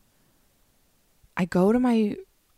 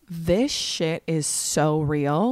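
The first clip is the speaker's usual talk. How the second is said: awed disbelief; 3 semitones lower, much slower than usual. Retold or imitated. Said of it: "I was like".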